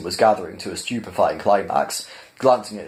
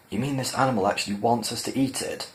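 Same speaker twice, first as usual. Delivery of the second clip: softer, hushed question; whispered aside; 2 semitones higher, 5 dB quieter than usual. Acted. Trillian whispering to Ford in disbelief, hushed. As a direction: lean in and keep it down. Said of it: "whispered Trillian to Ford".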